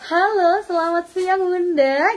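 sing-song, upbeat phone greeting; friendly call-centre admin. Retold or imitated. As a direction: greet the customer like a cheerful admin. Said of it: "biasanya dia menggunakan".

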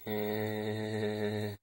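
long, monotone imitation cartoon laugh; badly faked cartoon laugh held on one note; SpongeBob laugh. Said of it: "This is my impression of SpongeBob".

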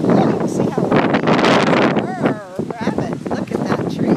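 loud high calls into the gale; shouting over wind. Real, not acted. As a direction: yell over the roaring wind.

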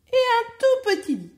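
tiny high squeak, punched out; tiny thing voice. A narrator's reading. Storyteller naming the tiniest bed, high and squeaky. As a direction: narrate the tiny bed in a high, loud little voice.

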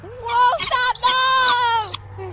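high startled whoa. Real, not acted. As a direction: gasp as it slips away. Guinea escaping her hands.

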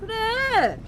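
high yelled answer; shouting match. Pretend. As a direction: shout it back. Yelling over noise.

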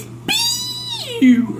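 squeaky high mock scare; toy says boo. Parent voicing the toy frog saying boo. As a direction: pitch a tiny puppet boo up high. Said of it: "Little Froggy says".

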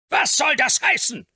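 startled high shout. A narrator's reading. Old earl shouting at his lawyer in shock. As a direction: bellow it out in sudden alarm. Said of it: "schrie er".

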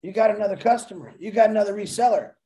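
quick, lightly voiced notification chirp; phone alert voice. Host imagines a phone ping, lightly voicing a quick alert. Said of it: "that tone, that's gonna say".

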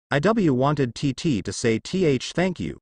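shy stammer on first sounds; stuttering. Acted. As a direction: stumble over each word nervously. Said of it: "stuttered the girl".

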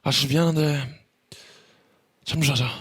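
바비. Acted. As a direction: lightly imitate a sleepy, halting complaint. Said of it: "바비 형이 이제 자려고 누웠는데". (자다 깬 바비 흉내)

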